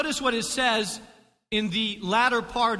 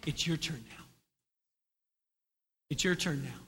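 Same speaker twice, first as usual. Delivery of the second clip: low, much softer whisper; 8 semitones lower, 9 dB quieter than usual. Shown as a demonstration. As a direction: whisper it to the person beside you. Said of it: "whisper. Don't say it out loud".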